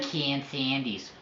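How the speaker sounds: drawn-out cartoon mimicry, "pee-can"; Roger. Mimicking a cartoon catchphrase, slow and drawn out. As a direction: stretch the words like a cartoon character. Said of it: "Roger from American Dad".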